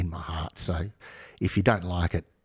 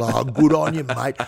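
Aboriginal English accent, much higher, mock gratitude; sarcastic Aboriginal accent; 6 semitones higher than usual. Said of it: "It's actually not a bad accent".

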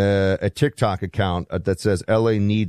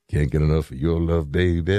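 a singer; 4 semitones lower than usual. Retold or imitated. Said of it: "you said Barry White".

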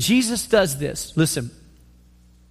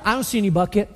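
attitude; faster than usual. Retold or imitated. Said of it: "She's got an attitude".

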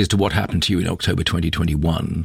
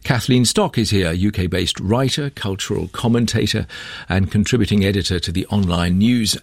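lifted, measured programme link; polished on-air presenter read; radio presenter introduction; 3 semitones higher than usual. Real, not acted. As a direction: introduce the guests to radio listeners. Presenter reads station ident and guest introductions.

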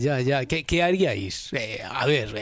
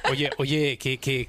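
ordinary delivery

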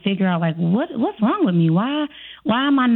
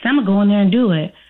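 overconfident; faster than usual. Retold or imitated. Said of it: "you come in there overconfident".

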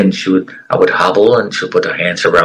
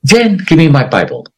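retold scream; 7 semitones higher than usual. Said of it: "I screamed".

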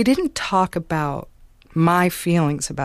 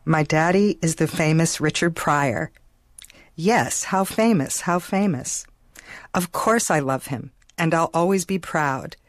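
measured poem reading, each line set apart. Real, not acted. Daughter reads the poem she wrote at eleven, recital style. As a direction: read the poem aloud like a recital, giving each line its own beat. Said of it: "Can I have you read it now?".

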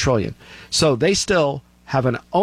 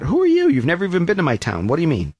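mock indignant retort; 6 semitones higher, faster than usual. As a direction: snap back at the outsider. Britons pushing back at officials.

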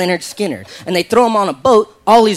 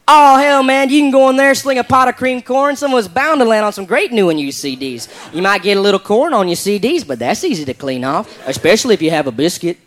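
put-on Southern redneck accent, colorful and folksy; redneck drawl. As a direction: talk like a good ol' Southern redneck. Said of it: "I like the way this guy talks".

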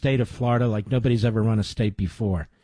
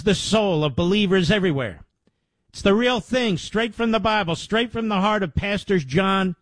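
higher-pitched, emphatic promotional pitch; ad read; 8 semitones higher than usual. Acted. Host urging listeners to support a ministry, ad read. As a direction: sell the ministry with lifted, urgent emphasis. Reads a sponsored ministry appeal.

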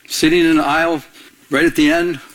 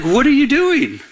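God's pointed question; 7 semitones higher than usual. Retold or imitated. God catching him looking around, raised and pointed. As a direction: raise the pitch and call him out. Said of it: "So he was like".

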